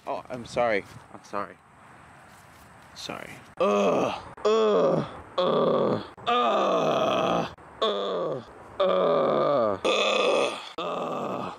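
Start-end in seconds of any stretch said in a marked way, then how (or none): 3.6-11.5 disgusted groans. Real, not acted. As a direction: groan again and again at the mess. Repeated disgusted groans over trash.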